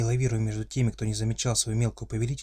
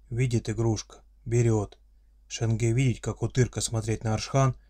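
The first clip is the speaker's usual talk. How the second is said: friendly monster voice. Acted. Orc father's solemn declaration.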